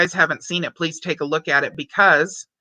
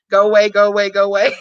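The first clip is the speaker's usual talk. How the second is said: laughing; 5 dB louder, faster than usual. Real, not acted. Recounting ignored call, laughing.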